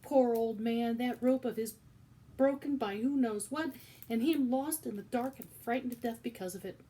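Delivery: loud, high lament; shouting. Acted. Cook shouting her grief, loud lament. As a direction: wail it out for the old man. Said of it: "shouted Cook".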